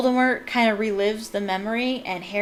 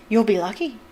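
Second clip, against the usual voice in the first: cackling voice; 3 dB louder than usual. Acted. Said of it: "said a cackling voice".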